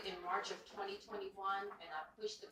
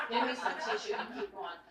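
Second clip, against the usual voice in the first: laughing; 3 semitones higher, 7 dB louder than usual. Real, not acted. Joking about crying at meet.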